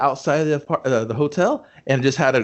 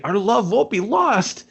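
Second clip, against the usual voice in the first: high, slow, swooning declaration; mock melodrama; 9 semitones higher, slower than usual. She answers Toby's return, slow swooning mock melodrama. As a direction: ham up the soap-opera vow. Melodramatic movie line quoted.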